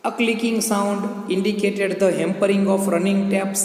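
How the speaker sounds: slow, deliberate reading of each phrase; slow dictation reading. Shown as a demonstration. Teacher dictating the passage to students, slow and deliberate. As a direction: read it slowly so students can write it.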